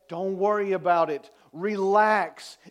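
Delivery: full-voiced, preached assurance; firm reassurance. Jesus to those mourning their losses, firm and preached. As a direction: declare it firmly to the whole room. Same words now preached firmly.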